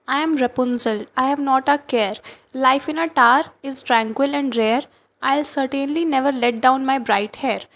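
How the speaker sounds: slow, dreamy poem reading; poem recitation. Acted. Teacher reading Amanda's mermaid daydream, slow recitation. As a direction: let the lines drift slowly.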